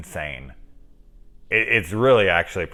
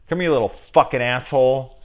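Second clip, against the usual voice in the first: louder villain snarl; mock threat; 4 semitones higher, 5 dB louder than usual. Shown as a demonstration. Rewriting the villain's line, mock anger. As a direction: spit out the insult. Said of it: "there's a huge difference".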